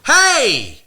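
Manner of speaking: high, loud laughing shout; retold yell. Yelling at the shirtless woman, high and laughing. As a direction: yell at her through laughter.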